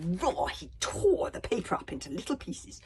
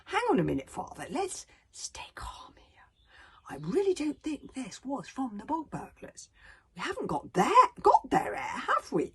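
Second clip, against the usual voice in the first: Hiccup's voice. Acted. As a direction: reason calmly with an angry dad. Hiccup reasons with his father.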